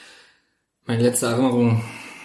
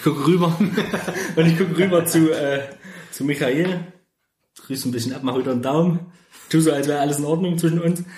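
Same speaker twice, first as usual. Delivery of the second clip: laughing while talking; 5 semitones higher than usual. Real, not acted. Player describes acting while laughing.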